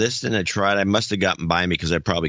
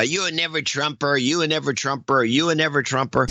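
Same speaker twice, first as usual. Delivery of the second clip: mock grilling; 5 semitones higher than usual. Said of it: "He grills everybody by".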